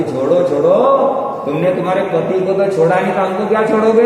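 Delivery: quick, sharp taunt thrown back fast; snapping retort. Retold or imitated. Daughter-in-law snaps back at her scolding mother-in-law, sharp and quick. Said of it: "फटाक से बोलती".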